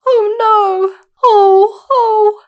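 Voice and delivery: high, rising dismay; Dorothy upset at the dented Tin Woodman; distressed girl. Acted. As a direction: cry out in dismay.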